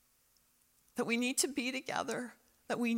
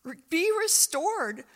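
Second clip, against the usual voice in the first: higher and much louder, a ringing call, slowing on the pleas; voice of God calling; 8 semitones higher, 6 dB louder than usual. Acted. God calling Israel home through the prophets, booming. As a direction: cry it out like a prophet summoning a nation. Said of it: "God would send Israel the prophets and say".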